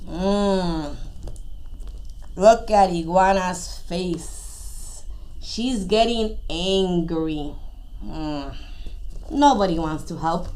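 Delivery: low, soft and slow warning; ominous aside. A narrator's reading. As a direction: drop low and draw it out softly. Ominous aside, iguana growing angry.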